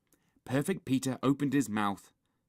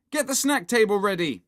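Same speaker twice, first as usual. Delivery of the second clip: loud, higher bossy command; shouted order; 10 semitones higher, 8 dB louder than usual. A narrator's reading. Henry orders Peter to set up snacks, shouting. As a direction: order an underling about loudly. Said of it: "shouted Horrid Henry".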